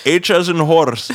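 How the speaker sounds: slow, loud, high spelling-back voice; mock customer service rep. Agent gets the caller's email wrong, slow emphatic spelling. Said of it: "they'll be like".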